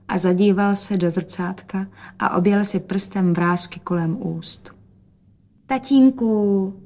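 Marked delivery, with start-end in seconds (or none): 5.7-6.7 slow, louder drawn-out call; daughter calling. A narrator's reading. Daughter calling to father while twirling, slow and drawn out. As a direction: draw out the word to show off. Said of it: "řekla Rozetka".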